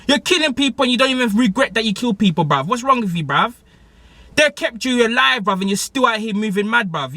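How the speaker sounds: worked-up complaint, every line ending on bruv; mad rant. Retold or imitated. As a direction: vent like you can't believe her. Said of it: "I was mad".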